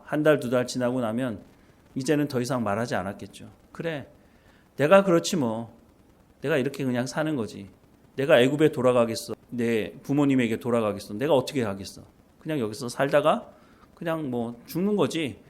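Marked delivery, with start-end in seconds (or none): 3.7-15.4 softer, giving-up murmur to himself; resigned musing. Retold or imitated. Moses gives up after months of silence, softer resigned murmur. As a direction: let it fade, he has given up. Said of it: "이런 생각을 하지 않았을까요".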